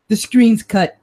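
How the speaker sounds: put-on gruff cop with a Brooklyn accent; lightly voiced Brooklyn detective. Detective Marino showing the examiner the way in, Brooklyn accent. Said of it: "I'm losing my Brooklyn accent".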